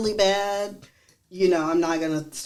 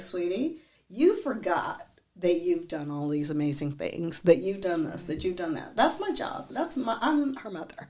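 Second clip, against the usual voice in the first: soft, reassuring mother to daughter; tender reassurance; 3 dB quieter than usual. Retold or imitated. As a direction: comfort her gently. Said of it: "I was like".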